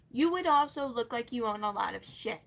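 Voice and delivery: heated yelling rant; angry rant. Real, not acted. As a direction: snap it out in real irritation. Ranting loudly.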